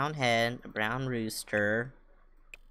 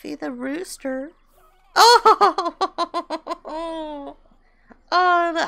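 much higher squeaky coo; cutesy pet voice; 8 dB louder, much slower than usual. Real, not acted. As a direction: greet the chicks like babies. Cooing at new chickens.

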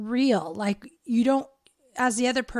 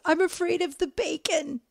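mock scared; 7 semitones higher than usual. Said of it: "she does this scared noise".

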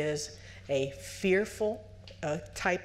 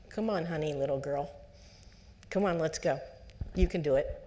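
encouraging parent. Retold or imitated. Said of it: "Instead of saying".

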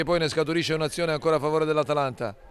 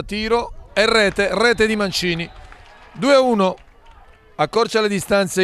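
excited goal call; 2 semitones higher than usual. Real, not acted. Penalty goal scored.

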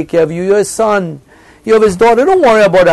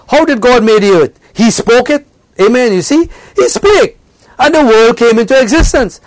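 raised, driving pulpit voice; fervent preaching; 3 semitones higher than usual. Acted. Preacher exhorting the congregation, fervent preaching.

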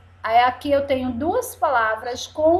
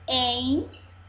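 EN... XU... GAR, long pauses between; syllable by syllable; 3 dB quieter than usual. Shown as a demonstration. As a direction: split "Enxugar" into three separate pieces. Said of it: "Vamos lá contar mais uma vez?". ("Enxugar" silabado, com pausas: en... xu... gar)

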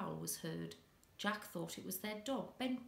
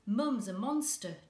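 much louder, higher frightened blurt; a scared boy blurting the news to his dad, much louder; blurted alarm; 4 semitones higher, 9 dB louder than usual. Acted. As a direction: burst it out to Dad.

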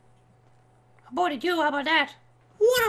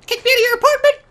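louder, higher indignant question; mock outrage; 4 semitones higher, 6 dB louder, much faster than usual. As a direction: raise your voice in outrage. Confronting friend, escalated repeat.

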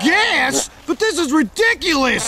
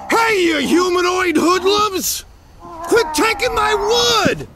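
indignant yell; 3 semitones higher, slower than usual. Acted. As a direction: holler crossly at thieves, stretching the words. Yelling at wood thieves.

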